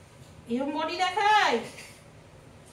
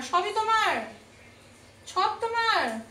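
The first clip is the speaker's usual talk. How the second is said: higher, mock-incredulous questions; pitched-up teasing questions to the dog; playful teasing; 5 semitones higher than usual. Real, not acted. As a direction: tease the pet playfully. Teasing the pet.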